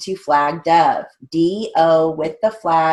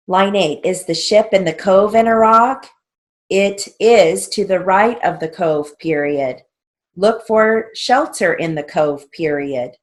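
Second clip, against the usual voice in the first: raised, measured drill-sentence dictation; 2 semitones higher, 4 dB louder than usual. Shown as a demonstration. Teacher reading shorthand drill lines to students, dictation voice. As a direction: read out each sentence and its punctuation.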